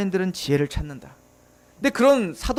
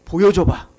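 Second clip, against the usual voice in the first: mocking demand. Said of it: "라고 이야기한다고요".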